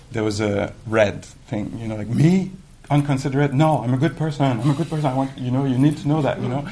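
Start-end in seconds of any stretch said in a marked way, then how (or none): 2.1-6.7 indignant protest. Retold or imitated. Acted indignant self-defence.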